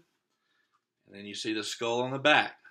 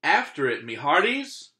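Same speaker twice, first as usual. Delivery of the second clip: pirate captain command; 4 dB louder than usual. Acted. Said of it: "Braid Beard commanded".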